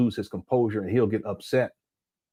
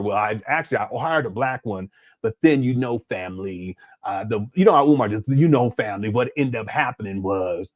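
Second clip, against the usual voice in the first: imitating Umar's excuse; 3 semitones lower than usual. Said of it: "he started looking up and blinking".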